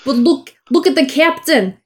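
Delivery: put-on New Yorker Scottish accent. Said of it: "That's a New Yorker Scottish person".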